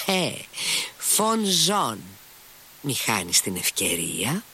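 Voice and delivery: put-on boisterous old father calling out; lightly voiced old buffoon. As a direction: coax them along with mock grandeur. Fyodor Pavlovich shouting, gesturing.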